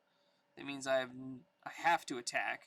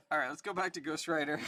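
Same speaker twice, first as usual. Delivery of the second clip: normal talking voice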